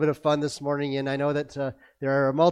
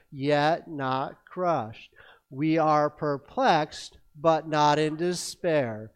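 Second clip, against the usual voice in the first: scripture reading; 2 semitones lower, slower than usual. Acted. Congregation verse recital together.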